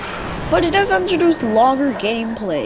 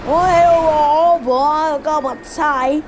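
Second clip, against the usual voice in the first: hammed-up higher British "cup of tea"; a cartoon Brit offering tea; jokey British accent that climbs higher on the last "cup of tea"; mock British accent; 4 semitones higher than usual. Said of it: "stop offending every British person".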